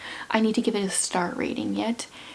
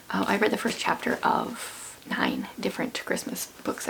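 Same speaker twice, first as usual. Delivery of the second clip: hoarse, half-whispered voice; losing voice; 6 dB quieter than usual. Real, not acted. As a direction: voice nearly gone from talking. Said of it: "Sorry for my lack of voice".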